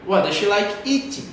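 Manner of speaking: "does she" joined, tune down on "eating"; linked, falling intonation. Shown as a demonstration. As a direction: link "does she" and let "eating" drop. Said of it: "a entonação lá pra baixo". ("does she" junto, "eating" com entonação pra baixo)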